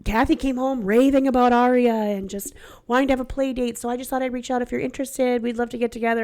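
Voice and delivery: sweet mom text. Retold or imitated. Reading other mom's text aloud.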